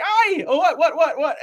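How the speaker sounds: high, laughing panicked whats. Retold or imitated. Skydivers reacting to the pilot, high panicked laughter. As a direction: squeal in mock panic. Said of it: "we're like".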